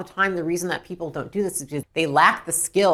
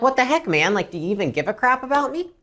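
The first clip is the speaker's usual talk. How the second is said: upset customer; 6 semitones higher than usual. Acted. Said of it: "you call somebody and you're upset".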